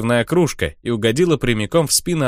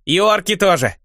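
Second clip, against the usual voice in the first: log agreeing; 8 semitones higher than usual. Acted. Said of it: "успела согласиться полено".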